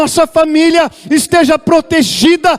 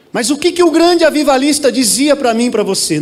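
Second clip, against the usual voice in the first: raised preaching voice. Real, not acted. Pastor asking the church what the great revivalist said, raised voice. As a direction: push the question out, nearly shouting. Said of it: "Não é gritando, não".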